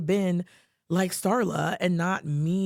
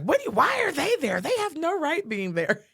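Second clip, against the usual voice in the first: fiery outburst; 10 semitones higher than usual. Retold or imitated. Friend texts back outraged about grandparents arriving, fiery. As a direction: fire it off like a spicy Italian friend. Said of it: "she's spicy Italian".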